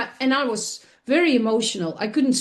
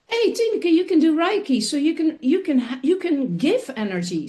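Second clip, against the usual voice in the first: self pep talk; 4 semitones higher than usual. Retold or imitated. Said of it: "And then I realized".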